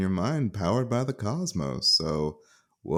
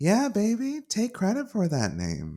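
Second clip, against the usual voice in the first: very high, swooping, sing-song feminine voice; 13 semitones higher than usual. One of the voices in Jessie's mind speaks, in a more feminine voice. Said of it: "a more feminine voice".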